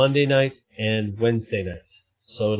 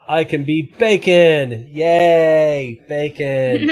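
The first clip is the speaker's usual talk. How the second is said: 1 silly bacon voice; 3 semitones higher, 4 dB louder, much slower than usual. Pretend. Bacon filter character voice.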